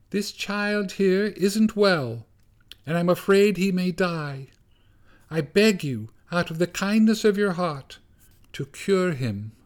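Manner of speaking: mother mouse voice. A narrator's reading. Mother mouse begs Gorsh to cure her child, high pleading voice. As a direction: beg like a tiny anxious mother mouse.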